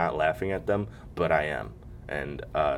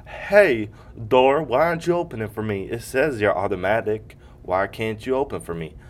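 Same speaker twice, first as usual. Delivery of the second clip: higher, louder mock whine at the door; whiny plea to a door; 3 semitones higher, 5 dB louder than usual. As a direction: plead with the door like a wronged child. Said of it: "And they're just like".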